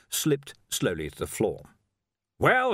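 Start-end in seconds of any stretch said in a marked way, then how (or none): 2.4-2.7 loud, high, abrupt snap; snapping. A narrator's reading. Arch-Chancellor challenges staring watchmen, snapping. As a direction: snap impatiently. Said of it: "he snapped".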